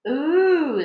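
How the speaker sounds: high, loud fearful ooh; a shivery little gasp of fear; frightened ooh. A narrator's reading. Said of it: "the ladybird said".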